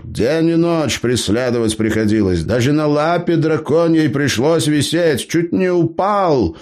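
put-on high-pitched cheeky old gnome. A narrator's reading. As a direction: play the crafty gnome, pitched well up. Gnome Eber speaks.

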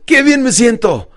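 high, loud, slow exclamation; with enthusiasm. Retold or imitated. Client obeying her coach, enthusiastic. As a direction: imitate a client mustering enthusiasm. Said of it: "pero con entusiasmo".

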